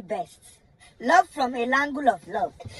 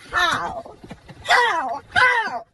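disbelief; 4 semitones higher, much slower than usual. Real, not acted. Rising disbelief.

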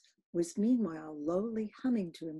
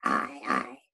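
low choked sob-shout; animal sob; 4 dB louder than usual. Acted. Captain cries out to the crew like a stricken moose. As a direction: howl it like a wounded beast. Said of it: "shouted with a terrific loud animal sob".

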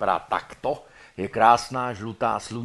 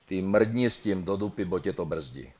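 Ostrava dialect; 2 semitones lower than usual. Acted. Dead man tells her to chuck it, Ostrava dialect. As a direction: toss the order off coarsely in Ostrava style. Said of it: "Ostravsky by to mohlo znít".

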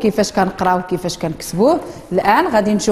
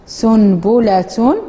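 سنبلة drawn out slowly, syllable by syllable; slow model reading; much slower than usual. Shown as a demonstration. Teacher modelling a word for the class, very slowly. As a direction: spell سنبلة out slowly with the ending. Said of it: "وتسموها بالفصحى سنبلة".

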